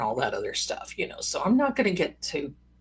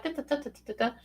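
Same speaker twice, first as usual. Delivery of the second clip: quick "da-da-da" patter, dropping softer; rattled-off filler syllables; 6 semitones higher, 8 dB quieter, much faster than usual. Retold or imitated. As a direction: rattle off nonsense syllables, higher and light. Nonsense syllables standing in for description.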